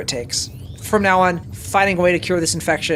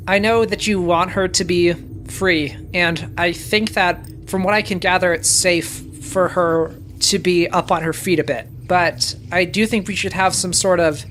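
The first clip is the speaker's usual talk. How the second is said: calm reassurance; 3 semitones lower than usual. Acted. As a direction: talk her down gently. Morden speaks calmly to Stitch.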